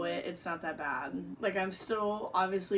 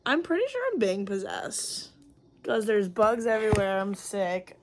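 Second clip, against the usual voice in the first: loud, frantic complaint; overwhelmed about the bugs; panicked; 7 dB louder than usual. Real, not acted. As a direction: spiral into mock panic.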